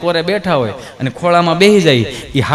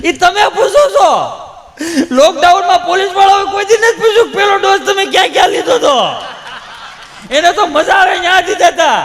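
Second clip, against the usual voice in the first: mock weepy complaint; 12 semitones higher than usual. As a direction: whine about the police, half laughing. Weepy man complains about police. (પોલીસની ફરિયાદ રડમસ ઊંચા અવાજે)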